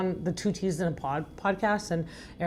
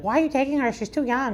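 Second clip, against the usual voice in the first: disapproving people; 7 semitones higher than usual. Retold or imitated. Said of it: "when people will be like".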